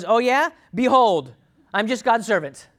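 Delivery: talking like an angel; loud, high echo of an angelic proclamation; Mary. Acted. Mary answering the angel in kind, bold proclamation. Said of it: "I can talk like angels".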